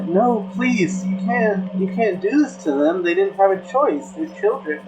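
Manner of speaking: high-pitched imitation of desperate begging; retold pleading. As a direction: plead for their lives, pitched well up. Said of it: "pleading for their life".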